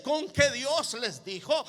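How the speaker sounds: slow, insinuating question; subtle insinuation. Acted. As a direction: plant doubt with a drawn-out question. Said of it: "para entrar con sutileza".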